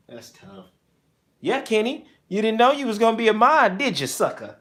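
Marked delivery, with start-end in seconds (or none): 1.4-4.6 teasing. Real, not acted. Teasing the new mod.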